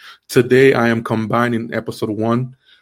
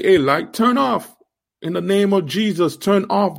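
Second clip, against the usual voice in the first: commanding prayer; 6 semitones higher than usual. Pretend.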